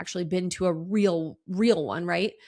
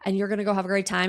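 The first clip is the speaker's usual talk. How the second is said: acting out gushing stylists, louder at first; sweet hype-up; 2 semitones higher, 3 dB louder, faster than usual. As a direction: lightly imitate stylists cheering a client on. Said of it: "they were really sweet".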